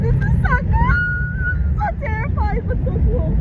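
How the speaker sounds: thrilled high squeals; gushing with excitement; excited. Real, not acted. Thrilled on a parasail.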